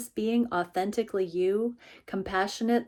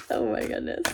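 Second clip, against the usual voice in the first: high burst of laughter; laughing; 11 semitones higher, 4 dB louder, faster than usual. Real, not acted. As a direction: laugh it off in delight. Laughing at dog.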